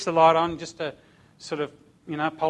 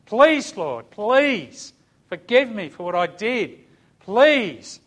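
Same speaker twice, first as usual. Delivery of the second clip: high, loud begging prayer; imitating a broken man begging God; desperate pleading; 4 semitones higher, 5 dB louder, much slower than usual. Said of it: "he's pleading for God".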